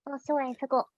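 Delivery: mock apology in character; Sticker. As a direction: apologise quietly in a put-on voice. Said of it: "as sticker".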